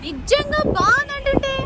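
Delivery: mock gushing. Mocking high repeat of praise.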